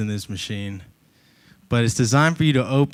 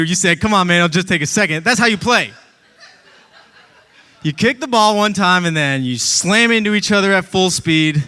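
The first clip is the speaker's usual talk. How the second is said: mock-indignant outburst; exasperated mock rant; 4 semitones higher than usual. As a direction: throw it back at them, half laughing. Acted exasperated reply, laughing.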